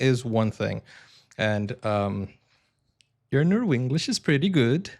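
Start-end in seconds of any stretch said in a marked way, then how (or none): 3.3-4.9 higher Norwegian-English lilt; bouncy imitated Norwegian accent, pitch swinging up and down; Norwenglish accent. Shown as a demonstration. Playful reply in imitated Norwenglish.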